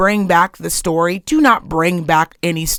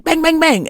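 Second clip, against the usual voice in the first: imitated pistol shots, pitched up; higher-pitched make-believe bangs; mock gunfire; 7 semitones higher than usual. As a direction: fire off quick verbal gunshots. Imitating gunfire in retold banter.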